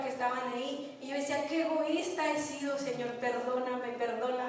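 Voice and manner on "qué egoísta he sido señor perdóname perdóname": soft, lowered retold prayer for forgiveness; remorseful plea. Believer asking God's forgiveness for selfishness, softly remorseful. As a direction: plead quietly, voice sinking with remorse.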